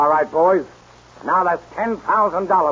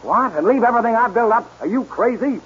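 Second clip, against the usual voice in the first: incredulous; 8 semitones higher than usual. Acted. Boss refuses to flee.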